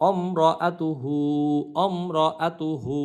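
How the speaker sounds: "আতু হু" with a long final u; final "হু" drawn out in measured recitation; elongated ending. Shown as a demonstration. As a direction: stretch the "হু" at the end. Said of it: "হু এখানে টান দেবো".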